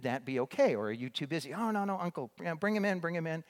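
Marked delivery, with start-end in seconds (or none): 1.5-3.4 higher, bright eager "bring him in"; higher-pitched retold eager welcome. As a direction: voice the village men gladly inviting him. Villagers answering warmly.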